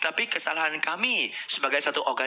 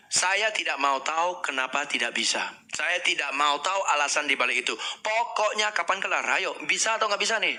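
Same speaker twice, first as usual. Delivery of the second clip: impatient demand. Retold or imitated. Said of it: "Dia ngomongnya begitu".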